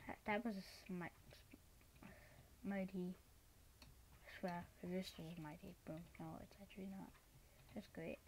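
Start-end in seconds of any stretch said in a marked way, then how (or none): 0.1-6.3 hushed unvoiced whisper. Real, not acted. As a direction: breathe the words out. Whispering after close call.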